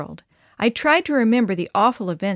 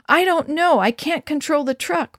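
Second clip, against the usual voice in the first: frantic; 7 semitones higher, 3 dB louder than usual. A narrator's reading. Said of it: "Mom answered frantically".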